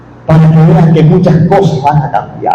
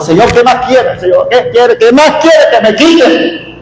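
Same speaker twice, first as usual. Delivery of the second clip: anguished prayer; 5 semitones higher than usual. Retold or imitated. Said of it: "yo me le encuentro al Señor".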